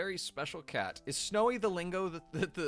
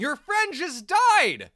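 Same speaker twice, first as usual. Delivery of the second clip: very loud, all-out swooping yell; 10 semitones higher, 12 dB louder than usual. Urging a character back into a crime scene: yelling. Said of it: "I'm sorry if I'm yelling a lot today".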